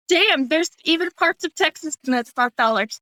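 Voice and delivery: slow Texas drawl; performed Texas accent. Shown as a demonstration. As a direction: put on a Texan twang.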